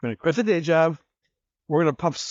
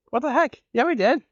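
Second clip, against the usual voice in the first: incredulous retort; 9 semitones higher than usual. Retold or imitated. Retorting to landlord's rent claim.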